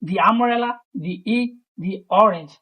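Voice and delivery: "the" said "thee" before each vowel noun; long "thee" gliding into umbrella, egg, orange. Shown as a demonstration. Teacher showing "the" before vowel sounds. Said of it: "ওই জন্য আমরা দি বসাইছি".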